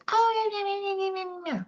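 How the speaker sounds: high, fading mocking critter voice; mimicking the doubting inner critic. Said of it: "our little critter comes up and goes".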